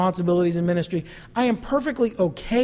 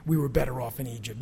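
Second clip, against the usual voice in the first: mock whine; 7 semitones lower, 7 dB quieter than usual. Mocking the Israelites' whine.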